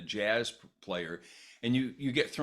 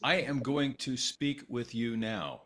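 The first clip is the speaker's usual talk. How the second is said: slow, overly proper delivery; stiff formal voice; slower than usual. Retold or imitated. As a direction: speak each word stiffly and properly. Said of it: "that kind of thing".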